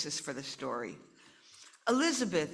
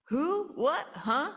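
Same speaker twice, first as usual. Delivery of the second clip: startled; 8 semitones higher, slower than usual. Acted. Mother startled awake.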